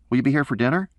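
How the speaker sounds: put-on a kid wanting his dad home; young son. A narrator's reading. Son on the phone asking when his father returns, pleading.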